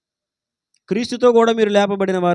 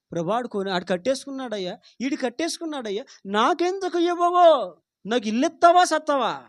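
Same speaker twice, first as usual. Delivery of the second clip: grumbling prayer. Retold or imitated. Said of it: "నీ ప్రార్థన ఎలా వస్తుందో చెప్పనా".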